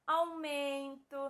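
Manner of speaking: "Aumento" drawn out slowly, "au-men-to"; syllables sounded out. Shown as a demonstration. Teacher gives examples of final U, slow syllable-by-syllable "Aumento". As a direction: stretch each syllable of "Aumento". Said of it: "em que a letra U esteja no final".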